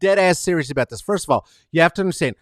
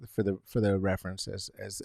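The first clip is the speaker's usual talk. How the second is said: ordinary delivery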